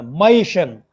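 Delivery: "मैशन" as MAY-shun, first syllable stressed; stress before shun. Shown as a demonstration. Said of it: "शन से पहले वाले syllable पे".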